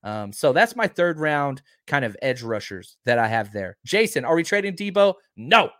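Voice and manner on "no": a flat, firm "No." cutting off the question; emphatic no. Real, not acted. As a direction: shut the rumour down in one word. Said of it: "I'm just trying to be as emphatic as possible".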